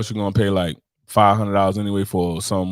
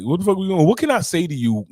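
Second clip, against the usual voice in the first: mock outrage; 7 semitones higher than usual. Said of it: "I'm like".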